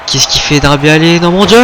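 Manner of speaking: rising excited call; wrestling commentator. Real, not acted. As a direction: build up to the gasp. Commentator reacts to a risky move.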